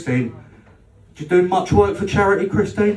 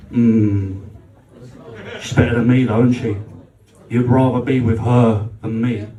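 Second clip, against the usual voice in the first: put-on insecure girlfriend; 6 semitones lower than usual. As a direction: sulk and push for the truth. Girlfriend voiced in story.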